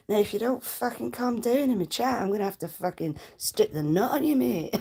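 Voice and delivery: a mixed, half-done Scottish accent, mock threat; mock Scottish hard man, lightly done. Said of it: "I can do a wee Scottish accent".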